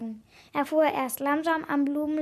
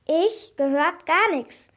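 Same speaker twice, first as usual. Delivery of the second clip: higher, louder nervous denial; a touch of flustered fear; stammering; 3 semitones higher, 5 dB louder, slower than usual. A narrator's reading. Caught girl denies eavesdropping to the man, stammering. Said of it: "stotterte Caroline".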